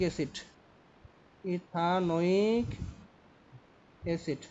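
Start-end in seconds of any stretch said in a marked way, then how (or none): 1.5-2.7 "ইথানোয়িক" stretched out slowly with a lifted ending; slow careful pronunciation. Shown as a demonstration. Teacher dictating the acid name to students, slow and deliberate. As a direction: say "ইথানোয়িক" slowly so students catch each syllable.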